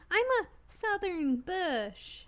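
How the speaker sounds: slow, drawn-out Southern drawl; Southern accent. Acted. Player announcing a costume, Southern accent. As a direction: lay on a Southern accent, stretched out. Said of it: "I worked on the accent for a long time".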